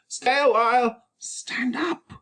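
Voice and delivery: urgent high whisper. Acted. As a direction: hiss it so the visitor can't hear. Friar hushing Romeo.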